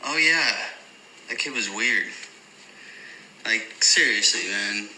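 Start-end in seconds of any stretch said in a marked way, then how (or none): 0.0-2.1 dismissive imitation. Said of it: "for anything other than".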